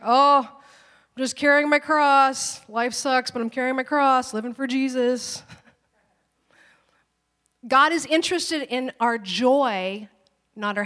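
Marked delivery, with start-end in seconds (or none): 0.0-5.4 mock martyr. Mocking miserable believers carrying their cross, hammed-up whine. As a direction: ham up the long-suffering Christian. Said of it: "for us to be like".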